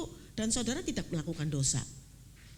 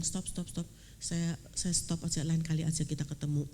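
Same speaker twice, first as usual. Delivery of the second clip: tearful stop; 4 semitones lower than usual. Retold or imitated. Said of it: "saya udah nangis".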